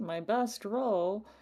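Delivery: sarcastic. Answering a request for a wits awareness roll: sarcastic. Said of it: "Completely sarcastic".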